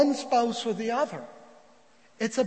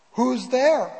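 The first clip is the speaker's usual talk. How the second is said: louder call through a door; loud, acted challenge; 3 semitones higher, 7 dB louder than usual. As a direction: raise your voice to ask who's knocking. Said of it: "Albert responds".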